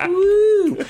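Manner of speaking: loud high whoop; excited whoop. Real, not acted. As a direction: let out a big woo. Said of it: "excited whoop".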